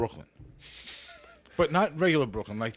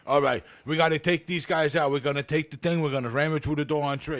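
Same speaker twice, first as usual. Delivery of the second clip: TV Brooklyn cop. Retold or imitated. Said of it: "talk like this".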